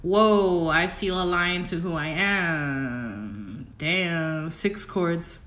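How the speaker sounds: mock amazement, stretched out slowly; imagined awed reaction. Streamer voices what Scorpio viewers will feel, slow awed wonder. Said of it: "You're gonna be like".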